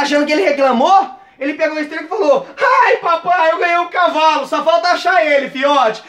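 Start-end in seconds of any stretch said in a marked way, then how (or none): 2.6-6.0 high-pitched hammed-up delight; overjoyed. Dreamer delighted with his imagined horse, mock overjoyed. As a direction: burst out thrilled, then ride the joy. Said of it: "E saiu felizão".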